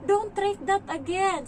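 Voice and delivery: put-on high, slow child's protest; drawn-out, high-pitched kiddie rebuke; imitated scolding child. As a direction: mimic a little kid telling you off. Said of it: "Sabi niya ganun".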